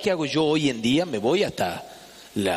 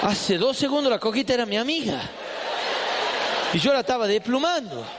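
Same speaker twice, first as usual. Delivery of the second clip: laughing disbelief; 5 semitones higher than usual. Retold or imitated. Boy's horrified reaction retold.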